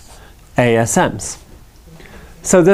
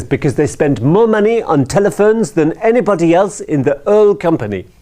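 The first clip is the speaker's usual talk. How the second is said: put-on French accent; 4 semitones higher than usual. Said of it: "it's France, after all".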